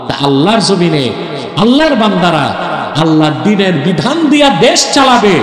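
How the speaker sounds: spoken, rising to a shout; declaimed refrain. Acted. Preacher repeating the refrain, now spoken and shouting. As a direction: proclaim it to the crowd.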